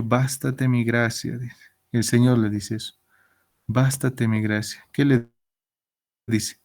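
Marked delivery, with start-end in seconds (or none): 0.0-1.4 slow, weighty "Bástate mi gracia"; slow reverent delivery of the Lord's answer; solemn quote. Acted. Quoting the Lord's words to Paul. 3.7-4.9 slow, weighty "Bástate mi gracia"; slow reverent delivery of the Lord's answer; solemn quote. Acted. Repeating the Lord's words.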